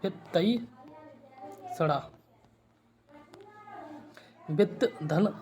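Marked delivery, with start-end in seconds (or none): 0.0-2.1 "वित्तईषणा" very slow, long pauses between parts; slow syllable demo. Shown as a demonstration. Teacher answering own question, very slow syllables. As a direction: spell out "वित्तईषणा" as वित्-तई, then षणा. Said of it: "क्या होगा?".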